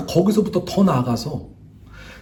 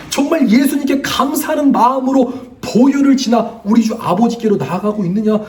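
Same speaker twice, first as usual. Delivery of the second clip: higher-pitched, urgent sermon questioning; impassioned preaching; 4 semitones higher than usual. Acted. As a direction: press the congregation with rousing questions. Preaches a challenge to the congregation. (열띤 설교조로 호소하듯)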